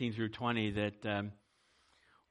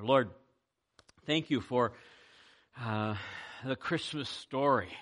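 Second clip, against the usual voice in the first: earnest prayer voice, rising on the hopeful lines; pastor's prayer; 3 dB louder than usual. Acted. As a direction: pray aloud for the congregation. Leads the closing prayer.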